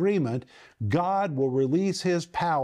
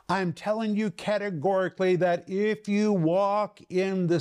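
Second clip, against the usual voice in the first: mildly raised, insistent preacher's delivery; emphatic; 2 semitones higher than usual. Acted. Paul raising his voice to get our attention, emphatic. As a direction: press each phrase home, slowing at the end. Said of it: "like he's raising his voice to get our attention".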